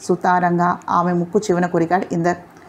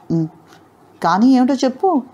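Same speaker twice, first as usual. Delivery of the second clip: a mild teasing lilt, pitched up on చెప్పు; teasing, half laughing; 4 semitones higher than usual. Acted. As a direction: coax her playfully with a smile in the voice. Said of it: "కొంటిగా నవ్వుతూ అడిగాడు ఇందర్". (కొంటెగా, నవ్వుతూ అడిగినట్టు)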